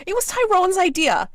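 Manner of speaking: high loud shriek; screaming. Acted. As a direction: shriek the accusation. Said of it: "she screams".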